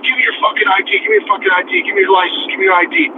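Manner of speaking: half-voiced irate badgering; mock angry yell. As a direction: imitate a man repeating urgent orders. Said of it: "he's yelling at me".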